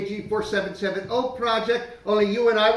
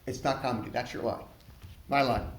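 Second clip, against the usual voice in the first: quiet demo; 7 semitones lower, 8 dB quieter than usual. Shown as a demonstration. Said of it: "rehearse it once".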